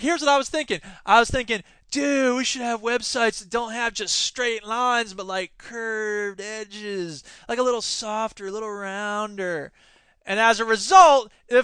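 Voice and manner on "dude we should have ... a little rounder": slow, softening dreamy musing; lightly voiced dreamy hippie. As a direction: drift into it like a stoner. Retelling hippie thinking.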